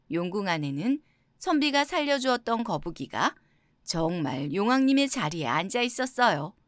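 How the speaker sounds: plain reading voice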